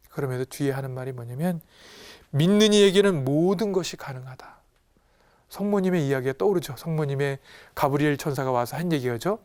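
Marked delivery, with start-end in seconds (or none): 2.3-4.6 higher, louder emphatic declaration; forceful rebuke. Acted. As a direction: declare it firmly, as a mild scolding. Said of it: "버럭 화를 내요". (힘주어 꾸짖듯 선언하며)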